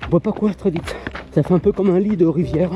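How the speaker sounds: talking mid-run on rough trail; a bit breathless from running; while running. Real, not acted. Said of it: "je suis en train de courir". (en pleine course)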